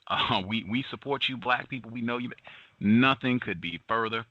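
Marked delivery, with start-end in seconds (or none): 0.1-2.3 higher mock-sympathetic voice; mock allies. Host voicing so-called allies to black people, higher mock-sweet. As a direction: parody fake solidarity, sweetly. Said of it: "They are down for the cause".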